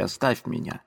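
tired, anguished repeat; quiet plea. Acted. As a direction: let the cry collapse into a plea. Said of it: "в судорожной тоске".

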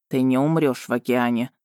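low, even reassurance; reassuring. A narrator's reading. Dragon promises Marina she will survive, reassuring. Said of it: "заверил Варган".

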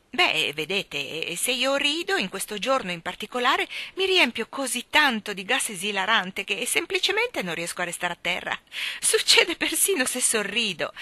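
a merry, chatty uncle explaining his trouble; bubbly old gentleman telling his secret; jolly Mr Wigg. Acted. Mr Wigg voiced in story.

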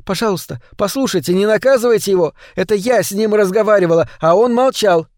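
выше и громче, торопливая мольба; умоляй, нарастая; умоляюще. Acted. Кэнди умоляет не наказывать. (Кэнди умоляет хозяина пощадить Шалопуту)

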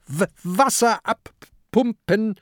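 high, stammered order; high-pitched commanding shout; barked command. A narrator's reading. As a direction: order the crew urgently. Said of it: "befiehlt Peter".

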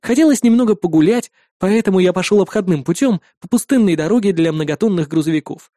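ordinary delivery

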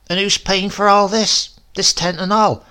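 put-on high, loud prying old woman; prying grandmother. A narrator's reading. Grandmother quizzes Silas about the bride, high and loud. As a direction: press him about the girl.

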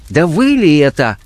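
high-pitched startled question; shocked recognition. Acted. Blackmailer recognising the unveiled woman, shocked. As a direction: let the recognition jolt the voice upward.

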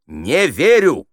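high, loud, drawn-out verdict; grand director stopping the show; Stanislavsky's cry. Acted. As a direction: boom НЕ ВЕРЮ slowly and emphatically. Director quotes Stanislavsky's famous cry.

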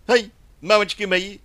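high, shrieking alarm; frightened cry. A narrator's reading. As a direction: yelp in sudden fright. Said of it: "Скарлетт вскрикнула".

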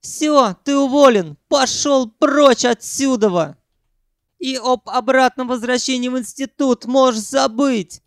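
high, loud firing; furious shout. A narrator's reading. Sanyok yelling that Ukhan is fired. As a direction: scream him out of the job.

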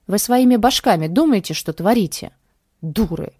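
loud scolding; angry scolding. Acted. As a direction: scold them harshly. Boss scolds girls.

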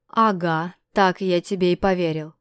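loud scornful bark. Acted. Askold barking at Dmitry in disbelief, loud scornful. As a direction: snap back in mocking disbelief. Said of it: "рявкнул Аскольд".

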